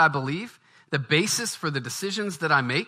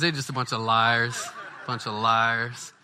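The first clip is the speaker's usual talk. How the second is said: said through laughter; laughing; 3 semitones lower, slower than usual. Real, not acted. Preacher laughs repeating the critics' charge. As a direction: chuckle the words out.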